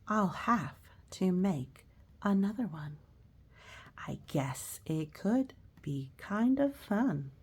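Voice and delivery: slow, storybook read-aloud; reading to children. Acted. Teacher reading a picture book to children, slow and gentle. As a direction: read the rhymes gently to kids.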